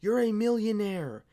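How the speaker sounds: high, loud, slurring mock drunk rant; drunk rant impression. Mocking Jon Jones's drunk Instagram rant, high and loud. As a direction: ham up a drunk, ranting Instagram post. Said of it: "having drunk rants like".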